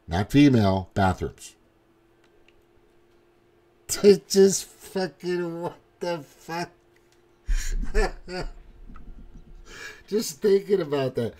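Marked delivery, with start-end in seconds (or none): 3.9-11.3 high, helpless laugh breaking up the words; can't get it out for laughing; squeaky, cracked-up delivery; real laughing. Real, not acted. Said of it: "I can't say it without laughing".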